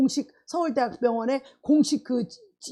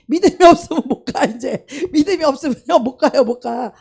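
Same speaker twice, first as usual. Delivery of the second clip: mock whining; 7 dB louder than usual. Preacher mocking faithless self.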